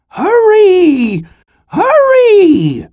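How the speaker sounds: high, loud urgent call. Acted. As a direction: call the grandson home fast. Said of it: "she called".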